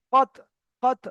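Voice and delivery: কত with the final heavy t bounced free; qalqalah echo. Shown as a demonstration. Teacher spells qaf and ta, then কত with echoing release. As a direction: release the tongue instantly at the end of কত. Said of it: "লাগিয়ে মাত্র আলাদা করতে হবে".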